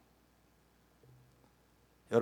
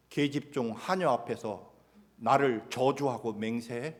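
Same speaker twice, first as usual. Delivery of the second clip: angry rebuke; 7 dB louder than usual. Acted. Jesus berating Peter over his denial, loud angry rebuke. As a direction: scold the runaway disciples. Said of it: "예수님이 그렇게 말할 수 있으셨을 것입니다".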